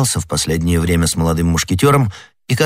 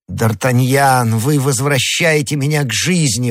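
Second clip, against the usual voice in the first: higher-pitched cry of relief, name drawn out slowly; elated, raised-pitch outburst; joyful exclamation; 6 semitones higher than usual. A narrator's reading. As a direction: exclaim as if given life back. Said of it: "воскликнул Арамис".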